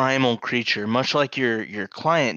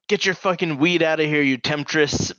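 mock indignation, pitched up; angry dad; 4 semitones higher than usual. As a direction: jokingly imitate a dad's tirade. Dad's typical tirade, retold jokingly.

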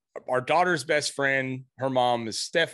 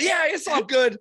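imitating son; 12 semitones higher, 4 dB louder than usual. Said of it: "And he's like".

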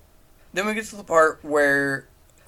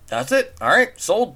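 mock eager investor; 8 semitones higher, 3 dB louder than usual. Mimicking investor's quick approval.

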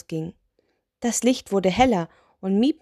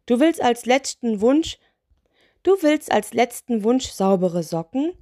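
higher, emphatic disbelieving questions; incredulous; 4 semitones higher, 3 dB louder than usual. Acted. Spirit stunned by the sock wish, incredulous. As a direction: restart the question, baffled.

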